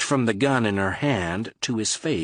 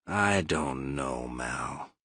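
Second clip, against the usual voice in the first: slow, heavy, dragging words; laborious; 7 semitones lower, 6 dB quieter, much slower than usual. A narrator's reading. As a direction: push each word out with effort. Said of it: "he said laboriously".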